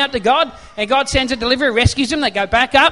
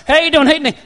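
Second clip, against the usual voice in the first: Joey Tribbiani impression; 3 dB louder, faster than usual. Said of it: "a really pretty girl comes".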